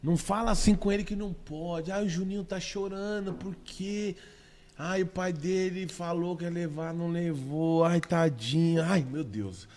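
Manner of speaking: a hint of a doting, fretting mother; mocking a fussy parent. Imitating a doting parent who shields the child, mild mock fretting.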